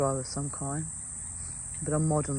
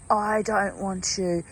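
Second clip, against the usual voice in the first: slow, drawn-out retold scream, only slightly raised; mild mock scream, words stretched out; slower than usual. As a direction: imitate a distressed woman's cry without really screaming. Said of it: "the young woman screaming".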